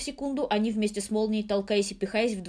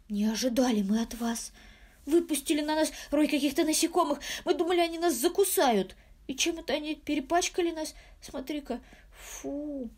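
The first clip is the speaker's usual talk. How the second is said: put-on higher girlish complaint; fussy girls complaining; 6 semitones higher than usual. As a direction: sound like offended little sisters. Frightened twin sisters complain. (высокий обиженный девичий голосок)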